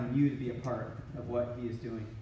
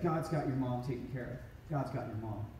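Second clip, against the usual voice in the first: gentle comfort; 3 semitones lower, 4 dB quieter than usual. Retold or imitated. Cam comforting grieving friend.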